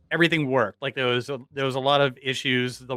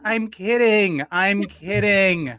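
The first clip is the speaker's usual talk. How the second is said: playful reassurance; 6 semitones higher, 4 dB louder, much slower than usual. Retold or imitated. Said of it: "And she goes".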